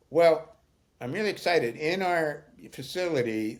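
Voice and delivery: proud, eager retelling of his new duty; excited. Retold or imitated. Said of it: "in a very excited voice".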